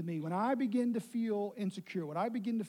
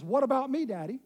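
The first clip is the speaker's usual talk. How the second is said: put-on little boy asking; 5 semitones higher, 6 dB louder than usual. Small son begging for attention.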